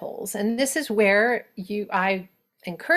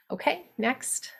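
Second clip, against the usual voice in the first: whisper; 5 semitones higher, 7 dB quieter than usual. Real, not acted. Aside to someone off mic.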